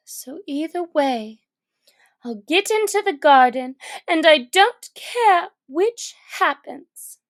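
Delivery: put-on high girl's voice, quick and loud; Alice carefree. Alice settling it either way, quick and carefree. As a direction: rush it out, not caring.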